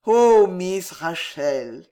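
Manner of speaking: slow, sighing endearment; lovelorn, lingering address; intimate aside. A narrator's reading. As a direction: draw the name out adoringly. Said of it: "il ajouta à son oreille".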